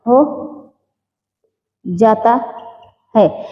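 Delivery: word by word with long pauses; slow dictation, leaving time to write. Real, not acted. Teacher dictating notes to students, dictation.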